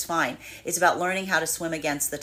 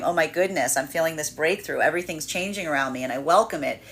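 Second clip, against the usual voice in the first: calm open delight at the change; welcoming, expansive. Retold or imitated. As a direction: say it as good news you embrace. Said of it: "this could be feeling expansive".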